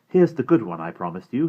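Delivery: lightly voiced eager boy; Omri's voice. Omri character voice.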